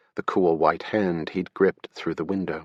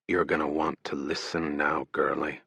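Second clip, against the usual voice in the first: softer, lower menacing taunt; menacing robber; 4 semitones lower, 6 dB quieter than usual. Acted. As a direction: threaten her coldly, close and low. Robber's remembered threat.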